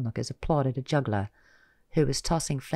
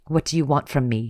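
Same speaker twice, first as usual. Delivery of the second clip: growled; 2 semitones higher, 5 dB louder than usual. Acted. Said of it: "she growled out of patience".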